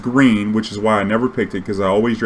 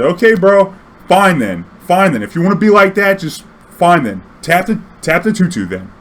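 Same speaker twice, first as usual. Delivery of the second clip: high, loud huffy concession; mock sulky giving in; 7 semitones higher, 5 dB louder than usual. Player faking defeat to bait his opponent, huffy and loud. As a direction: pretend to give up in a huff.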